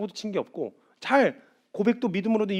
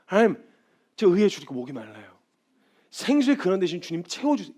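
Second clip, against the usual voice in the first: humble prayer; 4 dB louder than usual. Acted. Believer praying humbly to God for filling. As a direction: pray it simply and earnestly.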